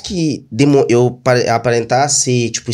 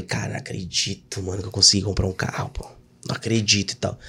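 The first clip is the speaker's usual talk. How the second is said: awed whisper; 6 semitones lower, 10 dB quieter than usual. Retold or imitated. Alone in new car, amazed.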